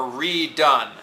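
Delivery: redone said slowly, DONE stressed; slow redone, leaning on done; stress on the base. Shown as a demonstration. Teacher giving an example of a prefix, slow redone stressing DONE. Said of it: "Done is the base".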